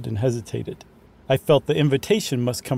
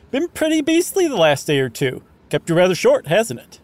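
higher, louder toff voice; posh English gentleman; 6 semitones higher, 4 dB louder than usual. Acted. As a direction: play a chirpy English toff.

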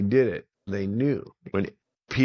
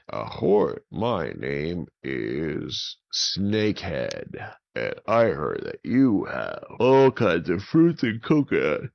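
pirate villain. Acted. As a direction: play the greedy pirate captain. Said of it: "And this pirate said".

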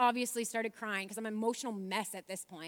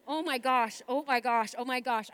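excited repeating; 5 dB louder than usual. Shown as a demonstration. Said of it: "here's exactly what happened".

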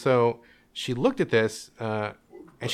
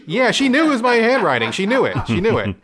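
emphatic; 8 semitones higher, 5 dB louder than usual. Real, not acted. Realizing mom knew.

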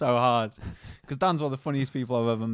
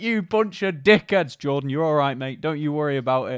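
dad's voice; 5 dB louder than usual. Retold or imitated. Friend's dad scolding then reassuring Jordan, louder. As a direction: tell them off then reassure. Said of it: "he's like".

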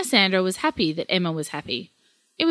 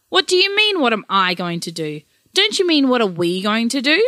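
husband throwing the blame back at his wife; indignant retort; 2 semitones higher, 4 dB louder than usual. Acted. Grandparents quarrel over lost child.

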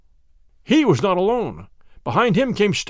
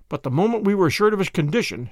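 ordinary delivery, nothing marked

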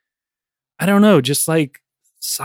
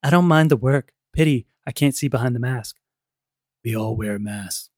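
bad acting; 3 semitones lower than usual. Shown as a demonstration. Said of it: "if you don't mind me acting a little bit".

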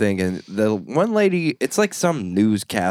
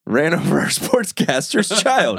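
mock scene reporter; 3 semitones higher than usual.

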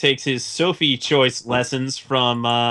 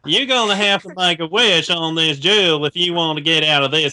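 mock Osaka accent. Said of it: "Osaka accent".

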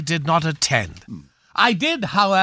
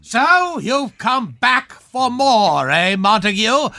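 hammy movie villain; 3 semitones higher, slower than usual. Acted. Villain speech from old movie.

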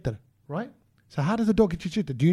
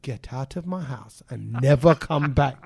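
mock outraged order; 6 semitones lower, slower than usual. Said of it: "in my head, I was like".

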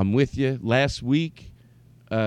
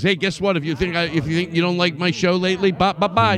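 high, quick dismissive send-off; raised-pitch cheeky retort; imitating Todd's brush-off; 6 semitones higher, 3 dB louder, faster than usual. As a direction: brush them off with a mock goodbye. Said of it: "Todd goes".

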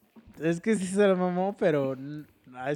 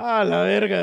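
loud, higher mock alarm; re-enacted loud startled curse; retold shock; 5 semitones higher, 10 dB louder than usual. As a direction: blurt it out, acting stunned. Acting out his shocked reaction.

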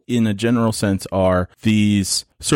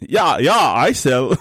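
higher-pitched mock Russian; bad Russian accent; 5 semitones higher, 3 dB louder than usual. Egged on to keep doing it, bad Russian accent. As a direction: ham up a shaky attempt at a Russian accent. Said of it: "not a good Russian accent".

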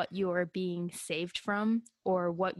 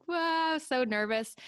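amazed wow; 8 semitones higher, slower than usual. Retold or imitated. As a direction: gasp it out in amazement. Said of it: "And I was like".

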